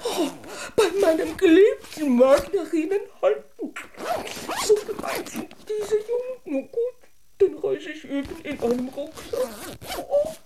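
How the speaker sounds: hammed-up sobbing lament; mock wailing. Doll laments the mean boys, hammed-up sobbing. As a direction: whimper it like a fussy doll.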